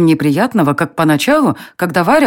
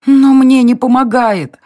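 slow, higher pleading moan; 8 semitones higher, 4 dB louder, slower than usual. A narrator's reading. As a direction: plead through a groan. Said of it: "простонала она".

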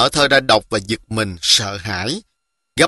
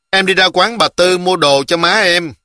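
put-on a touch of a young girl, pitched up; higher voice for a helpful little girl; lightly voiced little girl; 6 semitones higher than usual. Hường Lý answers the boy about her errand, lightly girlish.

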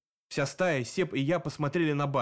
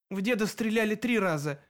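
trembling voice; 7 semitones higher than usual. A narrator's reading. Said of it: "дрожащим голосом сказал Илья".

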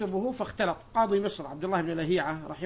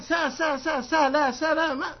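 higher, louder mimicry of a stumbling contestant; mock fumbling guess, pitched up; groping for a name; 7 semitones higher, 6 dB louder, slower than usual. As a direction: blurt out broken syllables, imitating a clueless contestant.

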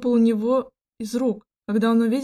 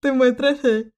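grim; 5 dB louder than usual. Acted. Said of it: "мрачно произнёс Кристиан".

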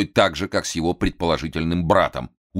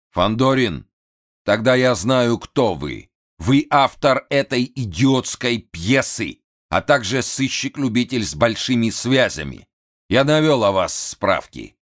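высокий взвинченный голос хана; капризный напуганный вельможа; нервный хан; 7 semitones higher, 5 dB louder, slower than usual. A narrator's reading. (взвинченный голос хана)

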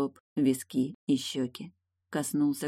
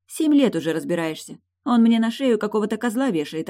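much higher and louder, urgent love; passionate young princess; 5 semitones higher, 5 dB louder than usual. A narrator's reading. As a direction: pour out love and defiance. Eilin voiced by narrator.

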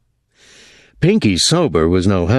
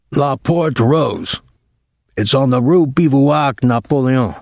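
put-on drunk sailor; 5 semitones higher than usual. A narrator's reading. Drunk Pinky reporting to Thomas about the bar, insistent. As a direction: lay out the details like a tipsy informant, pitch raised.

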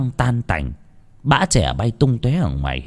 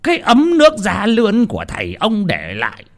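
yelling; 8 semitones higher than usual. Acted. Landlord raging at servant over the broken teapot, furious yelling. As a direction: roar at the boy over the heirloom. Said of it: "tiếng của Chánh Đẩm quát tháo".

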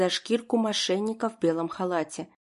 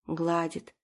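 ordinary delivery

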